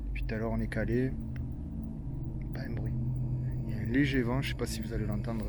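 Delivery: nervous night vlog whisper. Real, not acted. Listening for noises in dark woods.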